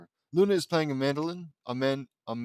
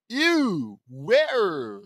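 high, loud shriek of disgust; horrified; 5 semitones higher, 7 dB louder than usual. A narrator's reading. Girl who thinks there's a real rat, horrified shriek. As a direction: recoil in horror at the thought of a rat.

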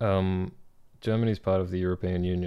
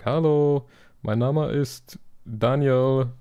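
higher, louder German call center greeting; cheery phone agent; 5 semitones higher, 5 dB louder, slower than usual. Retold or imitated. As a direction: answer the phone brightly in German.

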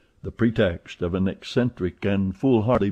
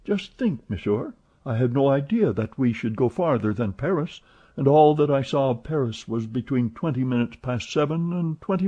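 a hint of an eager servant, higher; lightly voiced valet; 3 semitones higher than usual. Passepartout chatting to Fix, lightly voiced.

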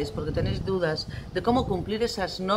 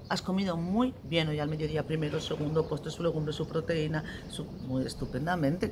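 backtracking parent; 2 semitones lower, 6 dB quieter than usual. Acted. Parent excusing a child from the afternoon snack, quietly backtracking. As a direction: talk yourself out of it quietly.

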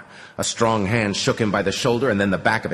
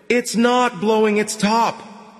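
flat hollow voice; 14 semitones higher, slower than usual. A narrator's reading. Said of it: "in a flat, hollow voice".

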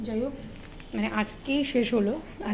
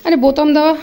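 surprised; 5 semitones higher, 12 dB louder than usual. Real, not acted. Surprise at the nightie buttons.

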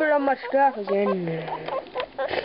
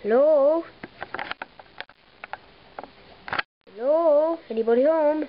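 calling down a hallway. Pretend. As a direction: call out to someone inside. Calling into the hutch.

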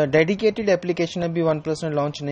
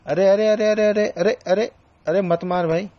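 higher, rapid string of urgent repeats; alarmed protest; 4 semitones higher than usual. Real, not acted. Player to a shooter mid-match, alarmed protest. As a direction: blurt it out in raised-pitch alarm. Being shot at during game.

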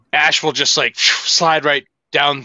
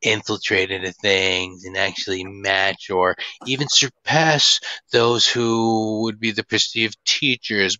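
lightly put-on creepy voice, measured and low; a hint of a creepy character holding forth; creepy little voice; 3 semitones lower than usual. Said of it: "Was he doing the little voice".

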